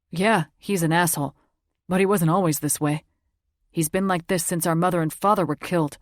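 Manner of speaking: lightly voiced brother, tired and sad; a hint of a weary younger brother; young man's voice, subdued. Narrator voices Jax.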